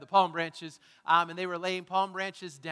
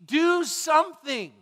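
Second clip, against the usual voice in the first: slow, higher pleading "God, please do something"; pleading prayer; 7 semitones higher, 9 dB louder, much slower than usual. Retold or imitated. Believers in hard times, pleading slowly with God. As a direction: beg God slowly and earnestly. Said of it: "we're like".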